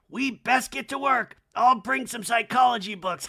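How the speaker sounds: high, loud put-on voice; hammed-up imitation, pitched high; Kyle. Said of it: "And Kyle's like".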